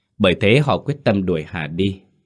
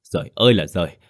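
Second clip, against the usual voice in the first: wailing lament; faster than usual. A narrator's reading. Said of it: "khóc lóc".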